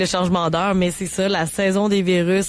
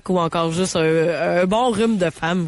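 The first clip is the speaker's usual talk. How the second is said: hoarse voice from a cold; rough, scratchy throat; smoker's rasp. Real, not acted. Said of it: "ma voix de fumeuse".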